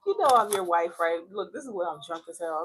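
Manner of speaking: put-on dramatic drunk plea. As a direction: push it out like a tipsy wife begging. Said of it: "I sound a little dramatic".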